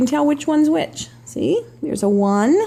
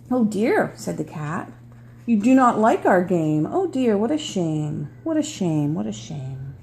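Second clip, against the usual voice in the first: sad; 4 semitones lower than usual. Acted. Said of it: "with a sad kind of look".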